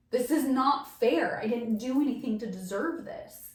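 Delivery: slow, pleading lament with a touch of anger; reliving railing at God, understated; mild retold anger. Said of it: "so angry".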